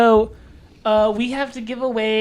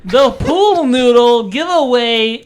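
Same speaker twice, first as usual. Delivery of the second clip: slow announcer voice; 6 dB louder, slower than usual. Pretend. Announcing the giveaway.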